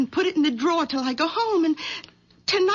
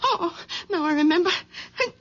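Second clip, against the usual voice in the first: a cry of relief as she finds the ring; relieved outburst finding the ring; relieved discovery; 2 semitones higher than usual. Acted. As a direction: gasp out the good news.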